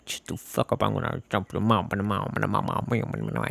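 soft, garbled cartoon grumble; angry mumbling. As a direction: trail curses into gibberish under your breath. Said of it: "that mumbling was like".

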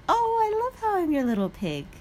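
high, playful gushing, easing down gradually; gushing reply. Retold or imitated. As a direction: imitate yourself gushing back to the teacher, way up high. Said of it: "And I was like".

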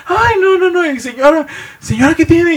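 high, laughing mock panic; half-laughed falsetto alarm. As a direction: fuss over the screaming lady. Bystanders panicking in story.

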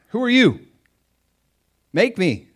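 high, loud taunting devil; mocking devil. Devil taunting a believer who has no authority. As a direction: sneer back at the believer. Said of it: "He's like".

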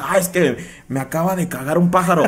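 giggling through the quoted excuse; laughing mock excuse. Friend mocking a bird excuse, laughing. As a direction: laugh while faking the excuse.

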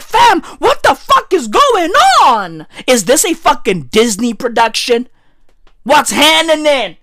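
retold disbelief. Reacting to the fairy-tale royal welcome, incredulous. Retells own bewildered reaction.

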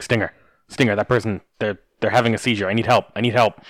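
mock panic over a stranger dancing; panicked call for help. The speaker, alarmed, calling to Stinger for help. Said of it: "I go to Stinger and I'm like".

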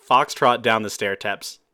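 startled by water mid-line; sprayed with water. Real, not acted. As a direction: cut off by a splash of water.

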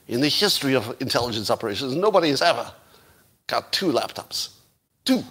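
hammy attempt at a Russian accent; bad Russian accent. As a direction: play the boasting operative with a badly faked Russian accent. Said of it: "this is my bad Russian accent".

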